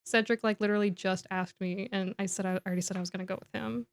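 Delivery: understated regret, softening toward the end; sad. Retold or imitated. Cho turning Harry down for the ball, gently sad. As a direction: let it sink into a quiet apology. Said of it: "she's, like, legitimately sad".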